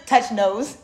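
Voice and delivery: giggling while speaking; laughing. Real, not acted. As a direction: say it through a real laugh.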